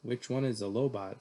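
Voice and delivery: mom's calm, even question. Acted. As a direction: ask it unruffled, in an everyday pitch. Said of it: "said Mom calmly".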